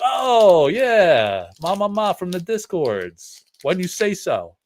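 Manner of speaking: high, loud mock gushing fan; mock excited fan. Friend imitating a fan greeting a Discord buddy, mock delight. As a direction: gush like a delighted fan who suddenly recognizes you.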